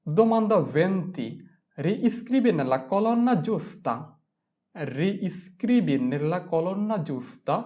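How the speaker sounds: very slow, careful Italian, every syllable clear; slow Italian reading. Shown as a demonstration. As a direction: read the Italian aloud slowly for learners. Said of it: "reads Italian instruction slowly".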